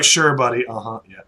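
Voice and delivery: loud start, tailing off into token agreement; seeming to go along with it; politely humouring. Acted. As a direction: humour him without believing a word. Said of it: "He seems polite, right? Seeming to accept".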